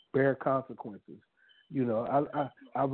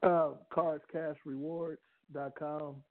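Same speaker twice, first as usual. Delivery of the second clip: out of breath. Real, not acted. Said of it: "I'm just catching my breath".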